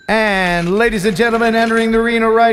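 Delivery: mock ring announcer, name hugely drawn out; arena announcer. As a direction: introduce a champion with a long, held name. Mock arena introduction of a donor.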